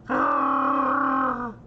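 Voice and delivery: high yowling wookiee roar; Chewbacca roar. Retold or imitated. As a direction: let out a Chewbacca howl. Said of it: "You sound like Chewbacca".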